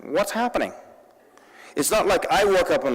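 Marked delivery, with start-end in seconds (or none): 0.0-0.7 higher mock white American guy accent. Speaker mimics a surprised white guy waking up, white guy accent. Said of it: "That's my white guy accent".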